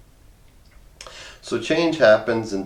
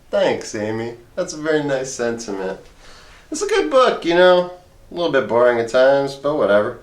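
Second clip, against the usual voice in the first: heckling second voice; 3 semitones higher than usual. Acted. Another voice comments on the book.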